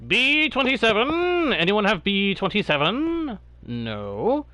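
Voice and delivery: calling out bingo numbers; lightly voiced bingo hall caller. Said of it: "I sounded like a bingo caller?".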